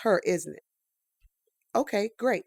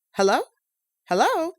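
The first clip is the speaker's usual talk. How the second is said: louder, pleading into the phone; desperate; 4 semitones higher, 4 dB louder than usual. Acted. Harper shouting into a dead phone line, desperate. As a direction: demand an answer, voice rising.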